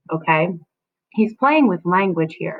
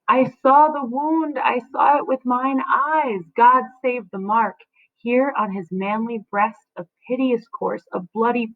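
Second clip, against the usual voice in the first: horrified nurse; 4 semitones higher than usual. Acted. Nurse telling Juliet of the bloody corpse, higher and horrified. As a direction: recoil at the sight in the words. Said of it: "The nurse then says".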